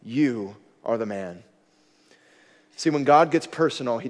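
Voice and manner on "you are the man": slow, soft repeat; soft, grave second accusation; hushed verdict. Retold or imitated. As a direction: let it sink in quietly. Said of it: "Nathan says".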